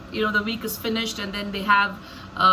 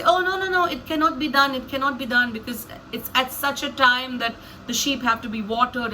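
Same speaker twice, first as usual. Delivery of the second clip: protesting refusal; 2 semitones higher than usual. Acted. Shepherds answering Jacob's question, protesting refusal. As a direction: wave the request away with rising insistence.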